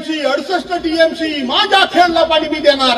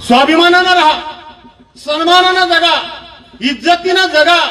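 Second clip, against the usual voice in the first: rallying call; 3 semitones higher than usual. Real, not acted. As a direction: proclaim it like a slogan. Rallying the crowd.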